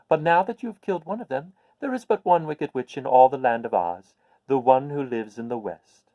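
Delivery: put-on a little old witch, pleased to share good news.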